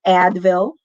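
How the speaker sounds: "Advil" with a wide-open short a; fussy short-a "Advil"; maarte short A. Shown as a demonstration. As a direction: play up the flat American a in "Advil". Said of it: "it's the maarting A".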